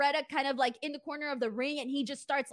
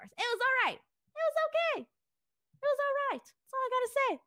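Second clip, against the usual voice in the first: put-on Southern accent; 11 semitones higher than usual. Host slips into a Southern accent while rating a brawl. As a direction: slip into a Southern accent, pitched well up. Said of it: "What's with the Southern accent?".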